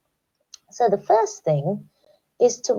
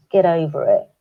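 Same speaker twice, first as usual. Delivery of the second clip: dismissive; 6 dB louder than usual. Retold or imitated. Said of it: "Do you say things like that?".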